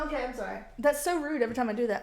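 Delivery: ordinary talk, nothing marked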